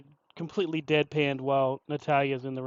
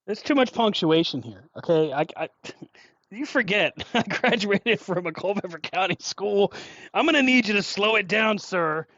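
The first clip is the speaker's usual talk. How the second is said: hammed-up hick; 5 semitones higher, 4 dB louder than usual. Hams up bad reader persona.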